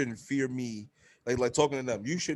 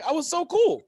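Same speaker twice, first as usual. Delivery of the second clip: indignant disbelief; 6 dB louder than usual. Retold or imitated. Retold protest of innocence.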